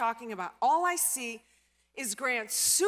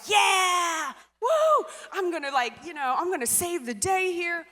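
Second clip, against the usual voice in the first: excited; 3 semitones higher than usual. Retold or imitated. Cheering in retold story.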